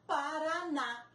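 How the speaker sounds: Paraná slowly with the last syllable ná stressed; stressed syllable shown. Shown as a demonstration. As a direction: stretch Paraná, leaning on ná. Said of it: "A última sílaba é o na". (Paraná, sílaba tônica no ná, devagar)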